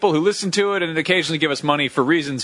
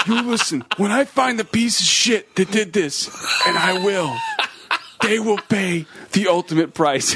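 slow mock threat as a singer; hammy vow in a singer's voice; impression of a singer; 4 semitones higher than usual. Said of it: "you have to read it as Danzig".

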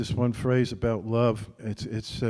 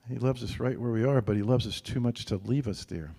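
ordinary talk, nothing marked

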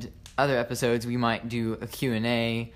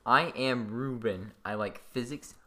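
said slowly and clearly; a slowed-down model line for a co-host; slow demo; 4 dB quieter than usual. Shown as a demonstration. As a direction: spell the intro out slowly for him. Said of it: "Say it slowly".

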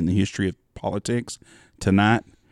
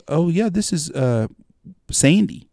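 put-on lightly higher kid's voice; a hint of an excited little boy; 8 semitones higher, slower than usual. Small English boy introducing Sandy to his mom, lightly higher. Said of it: "he goes".

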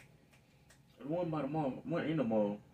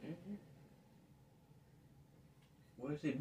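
ordinary talk, nothing marked

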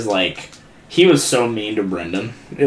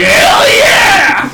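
high, loud whoop of joy; mock hyped whoop; excited yell; 8 dB louder than usual. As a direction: cheer it out like a hyped kid. Cody cheering, retold.

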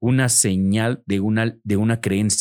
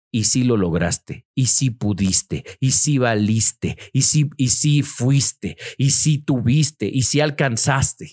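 encouraging questions; slower than usual. Shown as a demonstration. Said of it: "quiero que pienses".

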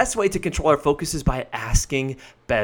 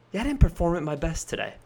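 softer, quick, matter-of-fact; calm and reflective; 2 semitones higher, 4 dB quieter, faster than usual. Shown as a demonstration. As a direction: brush the mistake off calmly, as a lesson. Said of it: "more intellectually reflective".

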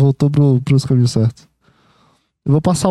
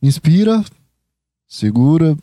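breathing instructions. Shown as a demonstration. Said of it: "Você quer respirando".

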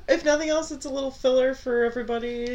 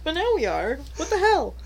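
laughing hard; 8 semitones higher, 4 dB louder, slower than usual. Real, not acted. Laughing at mic levels.

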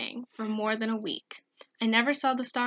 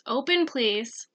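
slow plea; slower than usual. Retold or imitated. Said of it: "said the voice".

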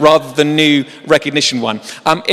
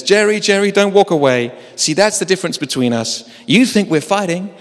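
pleading agent; 6 semitones higher than usual. Retold or imitated. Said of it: "And then he says".

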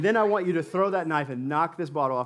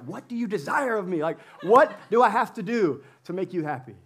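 raised-pitch exasperated student plea; mock exasperation; 4 semitones higher, 3 dB louder than usual. Student pleading with a vague professor, mock-exasperated.

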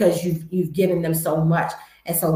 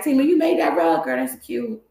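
higher gushing friend voice; admiring friend; 5 semitones higher than usual. Pretend. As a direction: gush over the rug like a friend. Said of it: "y'all better compliment it".

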